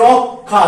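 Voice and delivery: রক্ষা slowly as rok-kha; k-kh pronunciation. Shown as a demonstration. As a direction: hold the k in রক্ষা, then release into kha. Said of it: "ক খ উচ্চারণ করবে".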